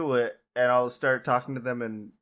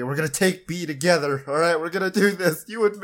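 louder, rallying a teammate; mock yell; 4 semitones higher, 4 dB louder than usual. Stranger dragging him to a medic, loud rallying call. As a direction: pump him up like a squad leader. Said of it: "he's just yelling at me".

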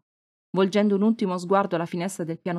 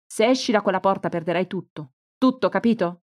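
louder threatening yell; mother shouting; 3 dB louder than usual. Acted. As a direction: shout after her to stop her. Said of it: "urlò Anna". (madre che urla una minaccia, voce più forte)

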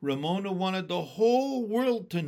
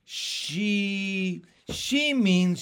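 high, louder, breathless with laughing; gasping with laughter; 5 semitones higher, 7 dB louder, much slower than usual. A narrator's reading. Beezus laughing at her sister's mistake, gasping. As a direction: get the words out through laughter. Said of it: "she gasped".

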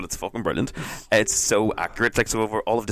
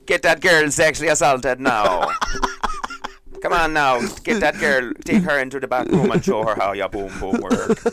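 put-on loud, higher-pitched Jamaican accent; 5 semitones higher, 4 dB louder than usual. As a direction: belt it out in a hammed-up Jamaican accent. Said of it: "translate in a Jamaican accent".

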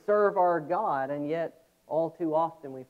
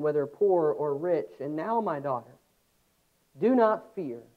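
louder, raised reading of the passage; scripture reading; 3 dB louder than usual. Acted. Preacher reading the Bible story aloud, in a raised reading voice. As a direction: read it out to the congregation with weight.

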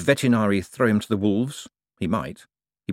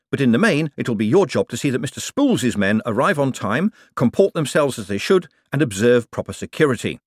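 raised, projected speech to workers; smooth boss pitch; 5 semitones higher, 3 dB louder than usual. Acted. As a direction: sell it to the men with assurance. Moist addresses the men.

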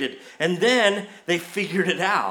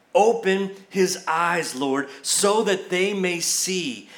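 slow, deliberate prayer read aloud; measured plea to God; slower than usual. Acted. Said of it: "here's what Elijah prays".

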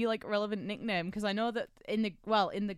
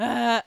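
imitated wheezy laugh; 4 semitones higher, 6 dB louder than usual. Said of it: "sort of, like, wheeze".

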